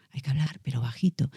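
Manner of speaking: soft but voiced, not whispered; low volume, voiced. Shown as a demonstration. Coach showing the safe alternative to whispering, speaking quietly. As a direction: keep it quiet with full sound. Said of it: "hablar bajito con sonido".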